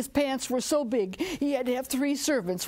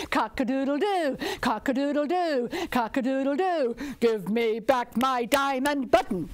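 rooster calling out; 3 semitones higher than usual. Acted. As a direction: crow it at the king again. Rooster calls to the king.

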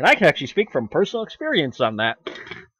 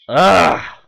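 usual speaking voice

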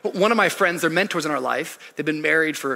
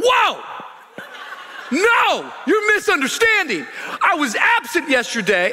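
protesting shout; 12 semitones higher, 3 dB louder than usual. Retold or imitated. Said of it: "I'm like".

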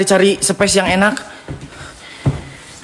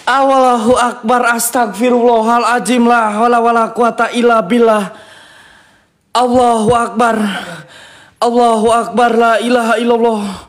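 prayer; 3 semitones higher than usual. Real, not acted.

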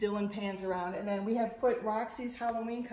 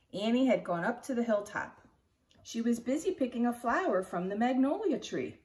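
put-on lively read-aloud narration for kids; expressive picture-book reading to children; story reading. A narrator's reading. Teacher reads chapter book aloud.

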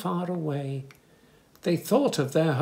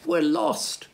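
high, loud shout to the dodo; 12 semitones higher, 5 dB louder than usual. Acted. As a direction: shout it across to the island. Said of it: "shouted the polar bear".

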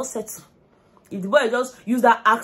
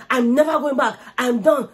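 mock declaration; 4 semitones higher, 4 dB louder than usual. Quoting Wani's vow.

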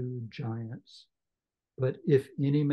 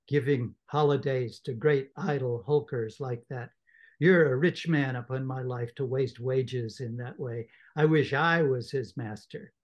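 a hint of a sharp-tongued wife; scolding sister. Mrs Joe scolding Joe about wasted wages.

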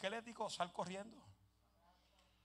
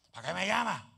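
mock protest; 9 dB louder than usual. The man repeating the protest.

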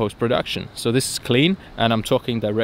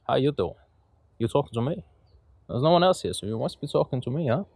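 mock tough guy; 5 dB quieter, faster than usual. Mock tough-guy movie quote.

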